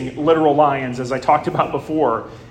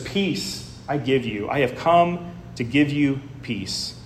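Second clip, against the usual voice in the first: softer and slower, like a gentle blessing; 6 dB quieter than usual. Retold or imitated. Preacher quietly gives Jesus' promise of peace to the congregation. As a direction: lay the words down quietly and slowly. Jesus' words, softly re-quoted.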